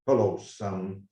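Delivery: put-on low, slow Texas accent; lightly imitating a deep Texan voice. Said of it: "in a deep Texan accent".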